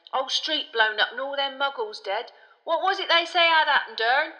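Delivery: high, loud, worked-up conductor; Stan the gossiping conductor. A narrator's reading. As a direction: gossip with lurid excitement.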